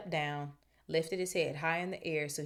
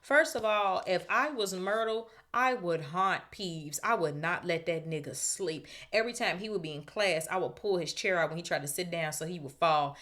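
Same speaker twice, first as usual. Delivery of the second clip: animated rant; 4 dB louder than usual. Real, not acted. Reader ranting about revenge.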